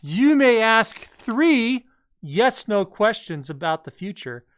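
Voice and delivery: slow, loud menacing machine voice; slow theatrical villain menace. Acted. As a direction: boom it out like a villain oracle. Voicing the question machine.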